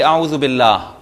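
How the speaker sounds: باللہ ending still; pausal stop. Shown as a demonstration. Teacher demonstrating the pause. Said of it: "رک جائیں گے".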